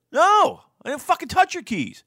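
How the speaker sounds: high, loud mock wife voice snapping back; imitating wife. Mocking his wife in a high voice as she denies moving keys. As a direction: play the wife denying it, shrill and loud. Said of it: "And she always goes".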